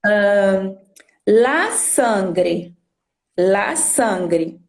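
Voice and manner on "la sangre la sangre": la sangre as two careful words, la SAN-gre; Spanish pronunciation. Shown as a demonstration. Teacher giving the feminine Spanish example, la sangre said carefully with a clear final e. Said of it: "Em espanhol".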